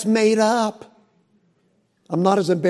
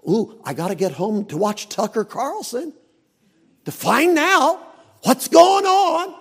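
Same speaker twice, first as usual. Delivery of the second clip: hammed-up excitement about the news; mock eagerness; 4 semitones higher than usual. Churchgoer hurrying home to his TV show, mock eager.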